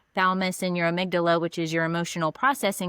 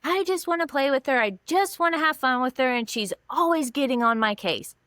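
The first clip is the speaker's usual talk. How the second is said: put-on higher, whiny upset child; mock crying son; 5 semitones higher than usual. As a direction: act the hurt little boy, lightly. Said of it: "he just starts crying".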